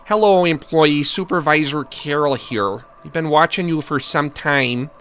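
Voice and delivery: hint of a Midwestern supervisor; lightly put-on Middle American accent. Shown as a demonstration. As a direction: read it like a Midwestern boss. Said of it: "more of a Middle American accent".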